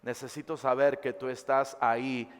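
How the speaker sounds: soft pleading prayer; soft plea. Shown as a demonstration. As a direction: whisper a plea to God gently. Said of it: "y dile". (súplica suave)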